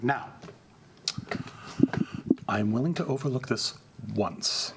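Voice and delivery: a hint of a cold, slow condescending prince; menacing vampire prince. Vampire Prince Antonio addressing the heckling Brujah, slow cold condescension. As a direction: talk down to the upstart, unhurried.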